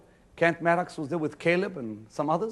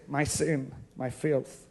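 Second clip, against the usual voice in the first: mock miserable prayer; 5 semitones lower than usual. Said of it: "When you say".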